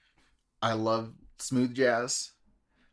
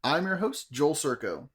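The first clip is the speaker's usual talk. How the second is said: customer service voice; 3 semitones higher than usual. Acted. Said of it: "It's like your customer service voice".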